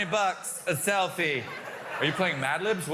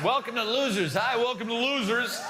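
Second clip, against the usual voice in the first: raised, announcing game-show host voice; 3 semitones higher than usual. Acted. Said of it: "Are we on a game show?".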